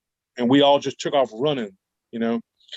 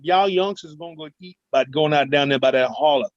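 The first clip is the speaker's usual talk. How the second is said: imitating granny; 2 semitones higher than usual. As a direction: mimic the grandma warning kids off the holler. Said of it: "She talked just like that".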